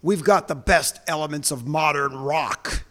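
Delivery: booming radio announcer read. Pretend. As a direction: sell it like a rock radio promo. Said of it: "ready, full announcer voice".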